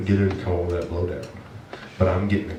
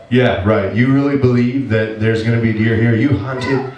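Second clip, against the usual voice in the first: lightly voiced mocking devil, a bit louder and higher; taunting devil; 3 semitones higher, 4 dB louder than usual. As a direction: jeer like the devil planting doubt. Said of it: "the devil's just beating me up".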